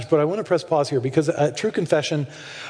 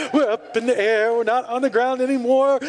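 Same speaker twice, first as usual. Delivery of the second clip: put-on excited little girl; 4 semitones higher than usual. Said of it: "she just continues this thing".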